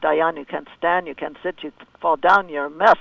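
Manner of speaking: light Russian accent imitation; imitating a Russian coach's accent; Igor's Russian accent. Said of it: "I always imitate his Russian accent".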